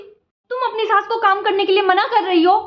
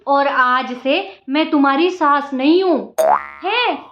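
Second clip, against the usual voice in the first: lightly lowered, motherly mother-in-law voice; 3 semitones lower than usual. Acted. Mother-in-law grandly telling the new bride how things will be, lightly lowered voice. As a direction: play the sweet-talking saas.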